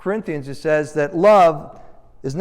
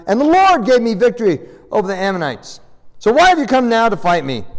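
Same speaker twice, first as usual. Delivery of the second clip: acted indignation, higher and pressing; angry rebuke; 4 semitones higher, 4 dB louder, faster than usual. Insulted Jephthah answers his own people, indignant rebuke. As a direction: read it as an insulted leader's protest. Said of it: "he's getting angry".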